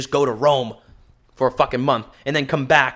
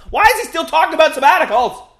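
much higher and louder, baffled whine; mock confused listener; 10 dB louder than usual. Pretend listener complaining about the topic, high loud whine. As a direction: squeal like a lost fan.

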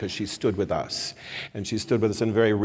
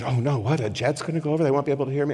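mildly flustered mock worry, slightly raised pitch; retold nervous fretting; 4 semitones higher, much faster than usual. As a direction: fret lightly, imitating a nervous speaker. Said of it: "she got very nervous and said".

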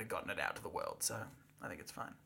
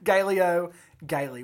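savouring the name; 2 semitones higher, 6 dB louder than usual. Shown as a demonstration. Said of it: "What a name".

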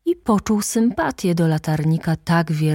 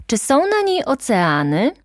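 higher, eager, hopeful asking; eager question; 9 semitones higher, 4 dB louder than usual. A narrator's reading. Little prince eagerly asking the geographer about oceans, higher voice. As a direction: ask like a curious child.

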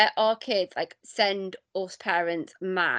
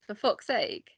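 softer, obliging Manx-accented phrase; own Manx accent; 6 dB quieter than usual. Shown as a demonstration. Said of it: "would you mind saying a phrase for me".

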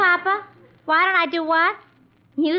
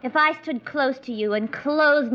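vamping. Acted. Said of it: "vamp Treacher into staying".

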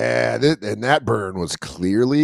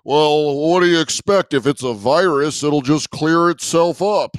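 Canadian's caricature of an American; lightly hammed-up American accent; mock American accent; 2 semitones higher than usual. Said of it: "They're going like".

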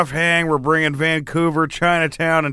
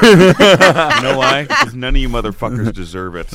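mock defiant; 2 semitones lower, 6 dB louder than usual. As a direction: drag out the refusal. Refusing intro, mock defiant.

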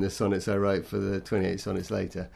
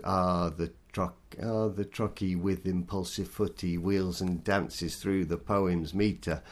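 slow, leaning on the first beat of each foot: TRUCky, WHEELS, DANces; trochaic verse reading. Shown as a demonstration. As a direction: read it as falling meter, strong then weak. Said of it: "my first line was".

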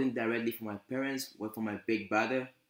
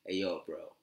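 lightly voiced laid-back bro talk, barely shifted; a hint of the roommate's easygoing slang; imitating roommate's talk. Imitating his African American roommate who says bro to everything, lightly voiced. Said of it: "This is how he talks".

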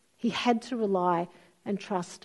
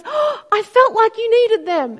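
friend's gentle reply; 12 semitones higher, 9 dB louder than usual. Retold or imitated.

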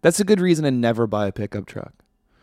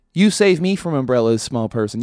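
mock command; 5 dB louder than usual. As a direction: boss the small person around. Ordering small people to protect him.

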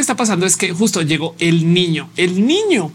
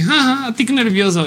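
nervous laugh; 4 semitones higher than usual. Retold or imitated. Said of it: "ese tipo de risa".

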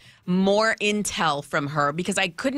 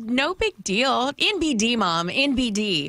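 higher-pitched imitation of a casual daughter; breezy kid; 4 semitones higher than usual. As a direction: shrug it off like a kid to mom. Mother voices her daughter's breezy reply.

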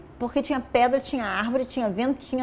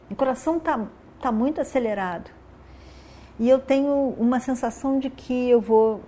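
collapsing after a race. Acted. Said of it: "quando ele tá dizendo isso".

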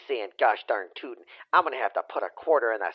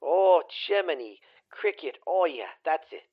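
mock ecstatic moan; 4 semitones higher than usual.

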